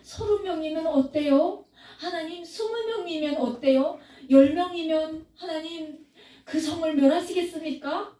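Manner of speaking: Abraham carefully begging God to spare the city; careful pleading. Retold or imitated. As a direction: plead gently, one number at a time. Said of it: "또 조심스럽게".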